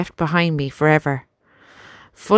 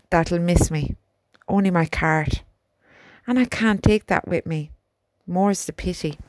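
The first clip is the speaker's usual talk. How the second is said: put-on grieving young soldier. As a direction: tell of a friend's death sadly. Albert remembers David.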